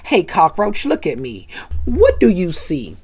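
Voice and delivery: low-key, mock-casual greeting; playing it cool. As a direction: act nonchalant while hiding a surprise. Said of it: "acting all cool".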